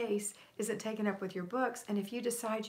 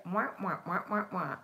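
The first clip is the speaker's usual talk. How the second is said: imitated wah-wah chatter; mock nagging noise. Imitating a critic's chatter for viewers, mock nagging noise. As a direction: drone out wah-wahs like empty criticism. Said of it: "They say it".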